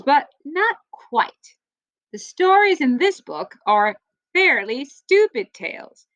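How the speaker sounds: lively storybook read-aloud for a class; reading to children. Acted. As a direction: read it like story time for kids. Teacher reads book to class.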